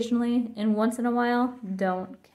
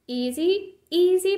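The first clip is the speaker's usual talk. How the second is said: put-on a rising, louder kid's protest; 8 semitones higher, 4 dB louder, slower than usual. A narrator's reading. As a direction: push back hard, climbing up. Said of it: "protested Brother".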